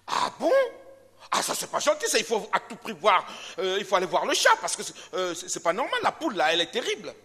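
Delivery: high, loud mock phone gossip; hammed-up cat gossiping to the dog. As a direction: spread the rumour breathlessly down the line. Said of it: "Il prend le téléphone".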